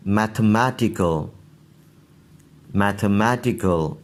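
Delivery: each word twice, with a short final अल; listen-and-repeat word list; model pronunciation. Shown as a demonstration. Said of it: "सुन लीजिए". (हर शब्द दो बार, साफ़ उच्चारण)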